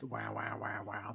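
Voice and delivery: low, quiet mimicked "wow-wow" effect; imitated electronic wobble. Describing a song's opening sound bite, softly imitated wobble.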